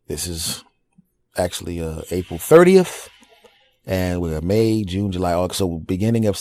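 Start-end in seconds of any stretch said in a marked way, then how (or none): 2.1-3.1 much higher, louder burst on the date; excited date. Real, not acted. Telling listeners when he returns to stand-up, excited. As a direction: announce it with a jolt of excitement. Announcing his comeback date.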